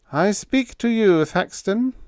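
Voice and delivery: high, deliberate coaxing; soothing parent. A narrator's reading. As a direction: call to him like a soothing parent. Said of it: "in the soothing tone of a parent".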